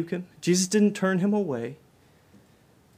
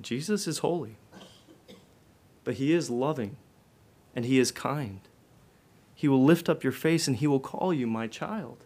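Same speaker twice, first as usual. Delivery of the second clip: gentle reassurance; 3 semitones lower, 4 dB quieter than usual. Acted. Gentle reassurance after preaching.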